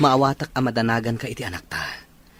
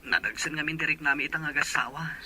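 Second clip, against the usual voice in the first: whispered; 7 dB quieter than usual. Acted. Father confides bad news to sister.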